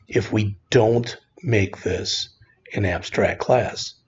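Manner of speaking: "don't" said slowly and clearly; careful slow teacher explanation; slow, deliberate. Shown as a demonstration. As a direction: spell it out slowly for students.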